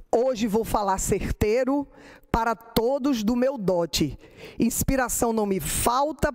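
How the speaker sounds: measured, rhythmic cordel recital; poem recital. Acted. Poet reciting her cestilha for her son, measured recital. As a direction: read each verse out with a steady cordel cadence.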